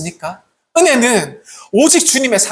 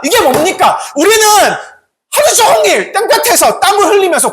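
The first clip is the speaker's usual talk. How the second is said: loud, high-pitched indignant protest; acted furious grievance, raised voice; angry complaint; 8 semitones higher, 4 dB louder than usual. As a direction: play an outraged worker confronting the master. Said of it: "이렇게 막 화를 내면서 얘기하는 거예요".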